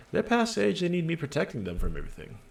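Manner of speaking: high protesting woman's voice; protesting mother. Acted. Mother tells policeman her children are grown, protesting. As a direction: open high, then rush on.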